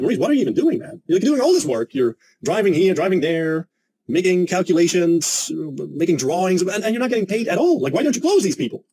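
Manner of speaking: exasperated pep talk. Retold or imitated. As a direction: shake your colleague awake with disbelief. Exasperated at colleague Maurice.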